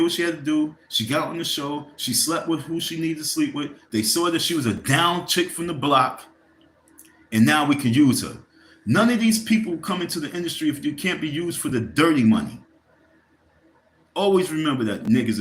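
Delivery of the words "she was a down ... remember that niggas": real rising anger, louder; getting mad. Real, not acted. Host ranting to viewers, voice rising in real anger. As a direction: heat building into a loud outburst. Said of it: "excuse me, I'm getting mad".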